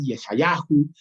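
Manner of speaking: Yeshayahu said the Hebrew way, ye-sha-YA-hu; Hebrew pronunciation. Shown as a demonstration. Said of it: "Cuando hablamos de Isaías". (pronunciación hebrea de Yeshayahu)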